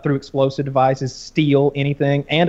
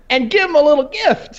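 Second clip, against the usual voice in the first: higher, wry playful tone; mock sly quip; 12 semitones higher, 3 dB louder than usual. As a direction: deliver it like a cheeky gift. Mock quote of police decision.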